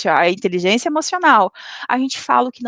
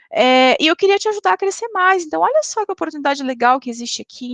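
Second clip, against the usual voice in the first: kind feedback; 3 semitones higher than usual. Retold or imitated. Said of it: "você fala".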